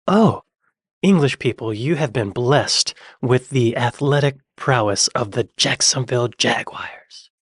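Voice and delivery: mock-grand, drawn-out sarcasm; sarcastic. Shown as a demonstration. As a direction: pretend to be awed, laying it on slowly.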